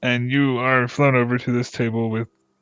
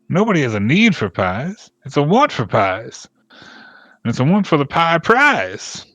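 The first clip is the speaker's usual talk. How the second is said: eager villager; 4 semitones higher, 4 dB louder, slower than usual. Acted. GM voices pie man.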